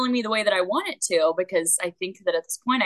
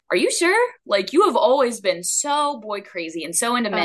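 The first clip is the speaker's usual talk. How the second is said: mock doubting relative. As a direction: mimic a skeptic who can't believe it.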